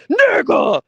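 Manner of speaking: sudden high yell of disbelief; shocked shout. Real, not acted. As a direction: blurt it out, stunned. Shocked outburst at livestream.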